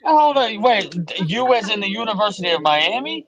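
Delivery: high, loud incredulous "wait, what?"; can't believe what he just heard; surprised disbelief. Real, not acted. Incredulous reaction to Miami pick.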